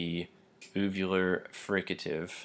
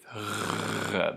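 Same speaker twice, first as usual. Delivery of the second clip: voiced uvular rasp; 2 semitones higher than usual. Shown as a demonstration. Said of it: "that is the voiced uvular fricative".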